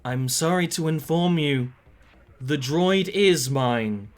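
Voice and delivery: lightly voiced, very polite robot; measured, courteous machine announcement, slowing at the end; polite robotic voice. Game master voicing a robot over the comms, politely robotic. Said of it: "a robotic, but very polite voice says".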